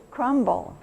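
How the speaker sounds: crumble said slowly with the B clearly sounded. Shown as a demonstration. Teacher asking the class to listen for the B in crumble. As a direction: let the B in crumble come through. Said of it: "do you hear the B in".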